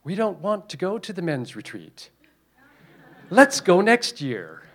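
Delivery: voicing the demon. Demon talking Smeagol out of the men's retreat, coaxing. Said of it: "the demon was saying".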